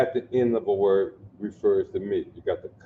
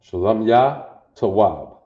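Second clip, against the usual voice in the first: loud demo phrase; 6 dB louder than usual. Shown as a demonstration. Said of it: "My peace is good".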